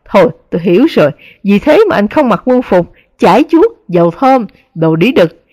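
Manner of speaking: fast, sneering disgust. Acted. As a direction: spit it out in contempt. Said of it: "nhăn mặt ghê tởm". (ghê tởm khinh bỉ)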